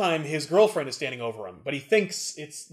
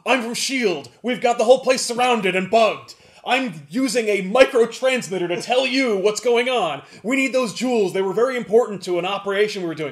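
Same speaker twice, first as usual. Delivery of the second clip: loud, higher bossy yell; yelling in ear; 4 semitones higher, 5 dB louder than usual. Retold or imitated. Tiny Ant-Man yelling into the pawnbroker's ear, bossy and loud. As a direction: bark orders like a fake agent. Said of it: "he yells in his ear".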